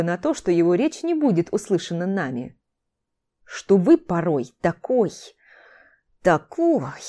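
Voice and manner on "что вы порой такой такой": slow, drawn-out hissed words; hissing. A narrator's reading. Орон hisses at his teacher, searching for the word, hissing. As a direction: hiss it haltingly, stretching each word. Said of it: "зашипел Орон".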